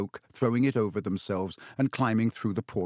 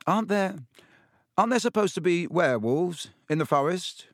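nervous; 7 semitones higher than usual. A narrator's reading. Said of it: "twirling his wand nervously in his fingers".

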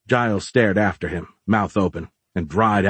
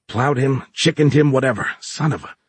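raised, irritated voice; exasperated retort; 5 semitones higher than usual. Acted. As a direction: brush off the objection, exasperated.

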